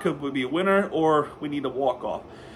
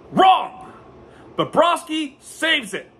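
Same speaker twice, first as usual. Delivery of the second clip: triumphant wrong; 9 semitones higher, slower than usual. Real, not acted. Fake-out reveal after "it's a goal.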